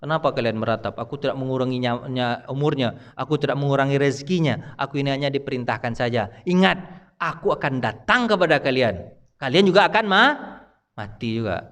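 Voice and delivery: a hushed, solemn angel's warning; angel of death. Retold or imitated. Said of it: "kata malaikat maut". (malaikat maut berbisik serius, suara rendah)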